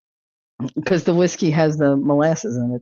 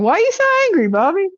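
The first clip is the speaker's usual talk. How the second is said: high, laughing question; high, giggling tease; 12 semitones higher, much faster than usual. Real, not acted. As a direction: tease a chatter while laughing.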